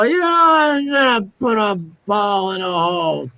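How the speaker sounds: high, put-on drunken Scottish accent; drunk Scotsman. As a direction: play a sozzled Scot. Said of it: "a couple of Scotsmen. They're drunk. They go".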